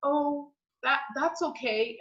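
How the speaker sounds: a mildly taken-aback, halting "that's okay"; stunned reply. Retold or imitated. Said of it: "I was so stunned".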